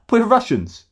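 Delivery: exaggerated high whine of a wronged holidaymaker; mocking whiny tourist.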